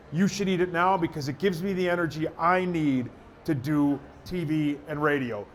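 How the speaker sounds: conversational radio spot read; improvised ad read. Shown as a demonstration. Radio guy improvising a cereal spot on request, conversational ad read. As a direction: pitch it like chatting to a listener, slowing on the brand name. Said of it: "see if I can do a minute on it".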